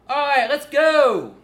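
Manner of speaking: very loud, high, drawn-out holler; exaggerated high call. Shown as a demonstration. Teacher getting students' attention, huge high-pitched call. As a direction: project it hugely in a high head voice. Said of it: "that's an exaggerated example".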